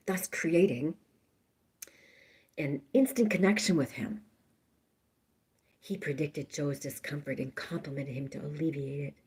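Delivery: soft hushed whisper; whispered storytelling. Acted. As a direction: breathe it like a secret.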